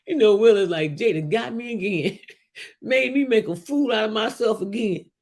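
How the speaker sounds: laughing through the quote; laughing retelling. Retold or imitated. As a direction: retell it while cracking up.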